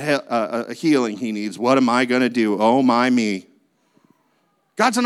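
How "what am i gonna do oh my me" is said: fretting God. Pretend. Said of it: "pacing the floor going".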